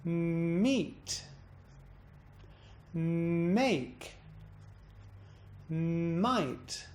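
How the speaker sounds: each word held on a hum, then bounced up and down; bounce on the word. Shown as a demonstration. Teacher demonstrating the hum-and-bounce exercise, bouncing each word. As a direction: hum into "Meet", "Make", "Might" with a rise-fall. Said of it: "Just experiencing a bounce on the word".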